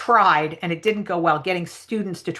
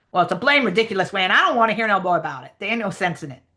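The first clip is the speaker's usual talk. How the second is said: fast, dismissive dialect character; lightly acted grumbling, rattled off; Jim; faster than usual. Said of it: "try to sort of read the Jim lines".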